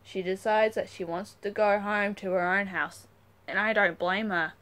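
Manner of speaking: lively read-aloud narration with voiced characters; story reading. A narrator's reading. Reader to viewers, storytelling. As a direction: tell the story to your viewers.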